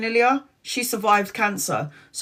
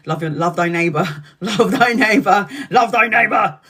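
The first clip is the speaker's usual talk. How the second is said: mock mantra; 3 dB louder than usual. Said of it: "And I'm like".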